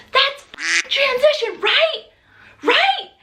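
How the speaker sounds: yelled question. Retold or imitated. Birth mom yelling to her midwives, checking it's transition. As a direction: call out to the living room, pleading. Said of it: "I yelled out into the living room".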